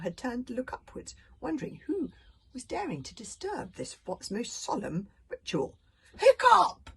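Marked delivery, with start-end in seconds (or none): 6.2-6.9 high, loud joyful shout. A narrator's reading. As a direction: call out with joy. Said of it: "shouted Thuggery the Meathead".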